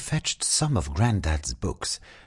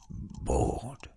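fading to a breathy whisper; 6 semitones higher, 7 dB quieter than usual. A narrator's reading. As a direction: let the word die away in a whisper. Bored girl sighing repeatedly.

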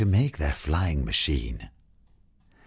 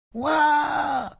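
put-on high startled child shriek; high scream as Zoe. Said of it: "screamed Zoe".

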